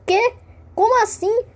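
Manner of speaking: high, loud disbelieving cry; shocked exclamation. Acted. Ícaro hearing the penguin speak, high and loud. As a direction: yelp it like the world just broke.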